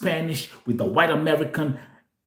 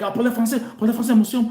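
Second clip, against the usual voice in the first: French speakers asking; 6 semitones higher, much faster than usual. Retold or imitated. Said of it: "They'll be like".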